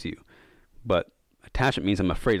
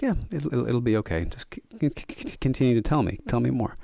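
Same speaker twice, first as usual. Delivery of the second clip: put-on old man comforting the weeping drunk; 4 semitones higher than usual. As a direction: soothe him as he cries, lifted and gentle.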